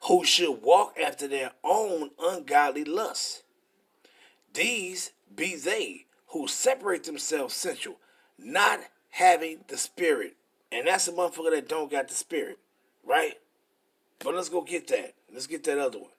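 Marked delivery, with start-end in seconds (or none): 0.1-10.4 slow, measured Bible reading; preacher reading the verse slowly; scripture reading. Acted. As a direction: read the verse out with weight. Reads scripture aloud.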